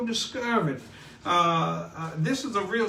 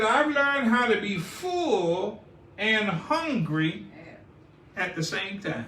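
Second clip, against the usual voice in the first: slow, solemn quoting of scripture; scripture reading; slower than usual. Acted. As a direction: read the verse slowly and gravely. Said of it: "Paul goes on to say in the fifth point".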